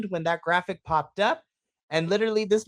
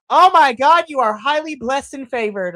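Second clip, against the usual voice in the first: high, loud gushing exclamation; excited fan; 8 semitones higher, 8 dB louder than usual. Retold or imitated. Fan a few rows ahead gushing, loud high squeal. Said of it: "being like".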